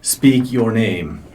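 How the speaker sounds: slow, measured, commanding demand; rumbling boulder voice. Acted. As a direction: stretch each word like an ancient boulder. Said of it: "a deep rumbling voice".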